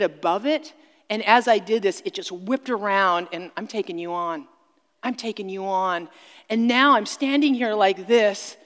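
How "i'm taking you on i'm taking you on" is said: growling. Retold or imitated. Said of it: "growling at a mountain lion".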